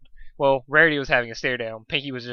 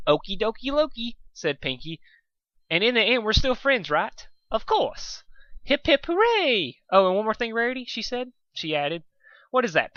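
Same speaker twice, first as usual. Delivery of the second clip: much higher, bouncy party pony voice; giddy Pinky; 9 semitones higher than usual. Acted. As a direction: gush like a happy little kid.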